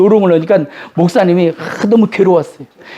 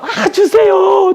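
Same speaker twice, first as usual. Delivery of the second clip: much higher, drawn-out whining beg with a laughing sob; whiny persistent plea; 12 semitones higher, much slower than usual. Retold or imitated. Believer stubbornly begs God, whining and laughing. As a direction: stretch it out, half laughing, half crying. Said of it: "끈질기게 믿어".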